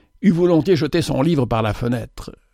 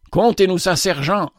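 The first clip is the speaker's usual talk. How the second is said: eager cry; 6 semitones higher than usual. Acted. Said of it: "s'écria le caporal Tarrot".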